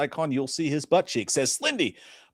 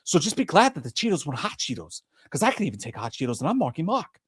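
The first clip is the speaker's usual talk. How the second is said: winded after ranting; out of breath. Real, not acted. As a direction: talk short of breath. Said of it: "I'm out of breath".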